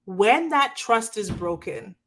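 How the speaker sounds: slow, breathy whisper of the phrase. Shown as a demonstration. To her viewers about broken trust, whispered slowly. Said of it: "whispered then repeated plainly".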